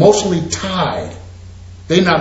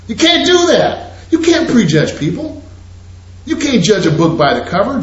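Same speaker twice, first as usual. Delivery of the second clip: higher, laughing through the scolding; 5 semitones higher than usual. Real, not acted. Teacher scolding students for prejudging, laughing. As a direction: scold them but laugh while you do it.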